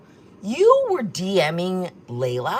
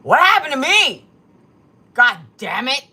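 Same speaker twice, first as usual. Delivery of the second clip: louder, higher yell of disgust; hammed-up shock at her reflection; mock horrified shout; 5 semitones higher, 9 dB louder than usual. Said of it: "takes a look at me and goes".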